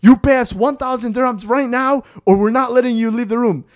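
high, loud, insistent demand; mock threatening. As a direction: act out a shakedown, pushing hard. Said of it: "threatening him".

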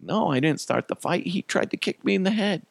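put-on high-pitched childish self-defense; mock whiny kid voice; protesting little kid. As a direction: plead your case like a boy to mom. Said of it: "I'm like".

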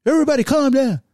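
commanding high shout over back-and-forth talk. Acted. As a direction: raise your voice to cut through a hyped room. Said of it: "that leader gonna raise his voice".

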